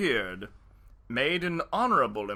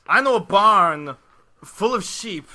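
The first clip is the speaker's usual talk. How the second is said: mildly voiced sly fox; 5 semitones higher, 11 dB louder than usual.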